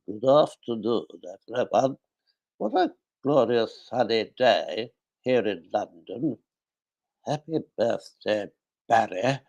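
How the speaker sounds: lightly put-on impression voice, deliberately paced; Paul Claridge. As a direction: mimic an acquaintance's manner of speaking. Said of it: "That was Paul Claridge. It's exactly how Paul Claridge speaks".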